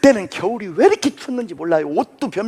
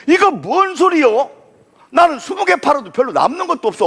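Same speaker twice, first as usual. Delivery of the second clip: indignant; 5 semitones higher than usual. Retold or imitated. Angry at competitor.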